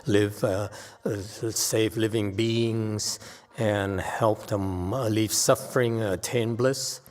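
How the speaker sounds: slow, sing-song mock recital of the standard line; slow mock recitation. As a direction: drag it out like a rote-learned mantra. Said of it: "they all talk like this".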